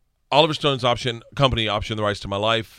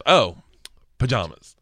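underwhelmed; slower than usual. Retold or imitated. Retold underwhelmed gift reaction.

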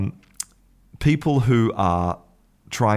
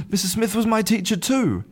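much higher, breathless amazement; astonished. Acted. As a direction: marvel as if it's a miracle. Irishman amazed at same teacher.

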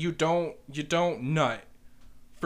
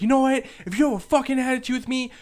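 raised, high retold telling-off; screaming back; 8 semitones higher, 5 dB louder than usual. Kitchen manager sending a worker home, angry raised voice. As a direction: imitate an angry boss sending someone home. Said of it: "they're screaming at each other".

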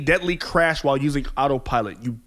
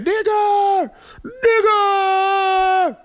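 imitated crowd yell; 11 semitones higher, much slower than usual. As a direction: shout it like a taunting fan. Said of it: "sitting there saying".

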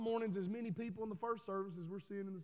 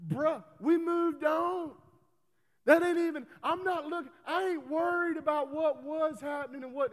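emphatic preaching; 6 semitones higher, 6 dB louder than usual. Acted. Preacher addressing complainer.

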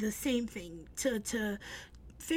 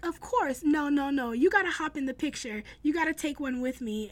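mildly excited, insistent imitation; eagerly insist, as in a retold quote; retold excitement; 3 semitones higher, 4 dB louder than usual. Actor urging a fan to join the picture, mildly excited. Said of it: "he was so excited about the pin".

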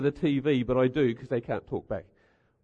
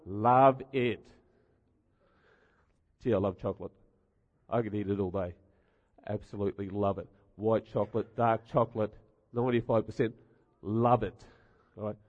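mock gushing; 7 semitones lower, 5 dB quieter than usual. Mocking chocolate fan, low voice.

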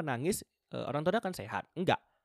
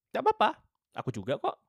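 high, loud reassurance; 7 semitones higher, 5 dB louder than usual. Real, not acted. Reassuring viewers it's okay.

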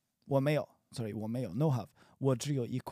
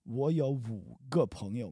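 slow sentence demo; 3 dB louder, much slower than usual. Shown as a demonstration. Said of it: "I have five".

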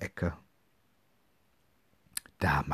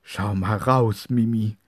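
amazed call; 3 semitones higher, 6 dB louder than usual. Acted. Brother calls his sister to the window, amazed. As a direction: point at the window in wonder. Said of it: "rief Basti ganz erstaunt".

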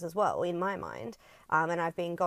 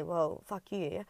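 hammed-up defensive outburst; mock angry comeback; 2 semitones higher than usual. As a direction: snap back at him, ego to ego. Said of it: "fight back to his ego and just say".

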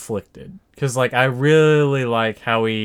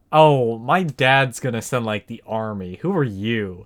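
princessy; 3 semitones lower than usual. Retold or imitated. Kidnapped Leia threatens her captor with her dad, princessy. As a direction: play a mildly haughty little princess. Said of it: "it's, like, such a princessy".

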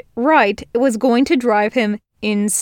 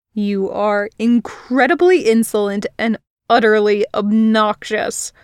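irritated insult. Acted. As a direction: spit out each word. Virgil insulting her.

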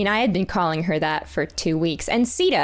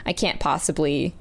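tired professor; 4 semitones lower, 3 dB quieter than usual. Retold or imitated. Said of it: "so tired at that point".

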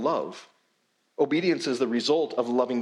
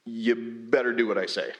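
demanding reading. Retold or imitated. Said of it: "we read it like".

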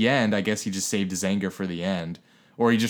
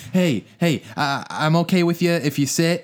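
retold scolding; 4 semitones higher, 4 dB louder than usual. Acts out woman scolding standing fans.

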